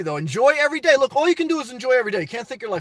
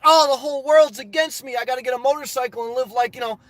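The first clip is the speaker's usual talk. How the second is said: self-pitying whine; 3 semitones higher than usual. Retold or imitated. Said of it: "you over there like".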